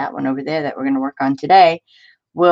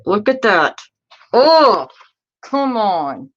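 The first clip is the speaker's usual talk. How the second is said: excited look; 4 semitones higher, 3 dB louder, slower than usual. Real, not acted. Showing page, building.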